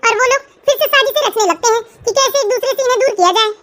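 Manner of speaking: even storyteller voice carrying the plot; story narration. A narrator's reading. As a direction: narrate it plainly to the listener. (कहानी सुनाने वाली आवाज़)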